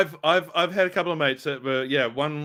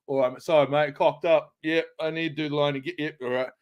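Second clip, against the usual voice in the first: bad English accent. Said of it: "I'd be sitting there going".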